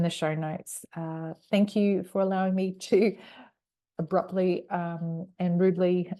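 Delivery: bright, friendly promo read to listeners. Acted. Host breaks into the episode to plug her book, promo voice. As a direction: pitch the book warmly like a sponsor spot.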